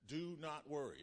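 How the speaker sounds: preacher voicing Jesus' command; voicing Jesus. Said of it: "Jesus said".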